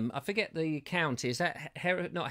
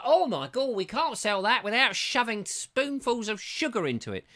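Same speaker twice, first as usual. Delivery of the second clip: mock panic; 6 semitones higher than usual. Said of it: "suddenly it's like".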